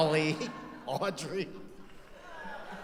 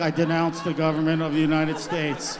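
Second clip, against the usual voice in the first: hostage video voice; 7 dB louder than usual. Retold or imitated. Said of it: "Al Qaeda hostage videos".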